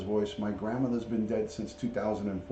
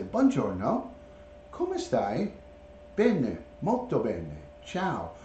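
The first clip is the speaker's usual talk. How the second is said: sing-song Italian greeting, slower, rising; parrot imitating grandma; slower than usual. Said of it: "He would say".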